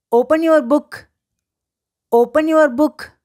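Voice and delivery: slow, measured teacher demonstration; slow model phrase. Shown as a demonstration. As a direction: say it slowly for learners to repeat. Teacher models English phrase to repeat.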